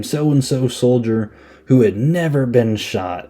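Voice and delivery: mock-proud war buddy talk; mock inspirational speech. Retelling a soldier boasting to his friend, mock inspirational. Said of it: "doing this big inspirational speech".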